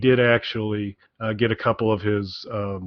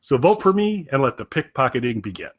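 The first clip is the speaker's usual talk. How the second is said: a slightly raised, performed book reading; lightly dramatic reading voice; 3 semitones higher than usual. Shown as a demonstration. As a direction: read it like the author delivering his speech. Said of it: "you did a great dramatic reading".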